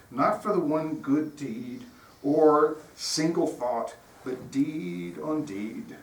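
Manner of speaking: slow, deliberate recitation of a passage; solemn reading. Acted. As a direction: lay each phrase down slowly, like scripture. Reads Du Bois passage.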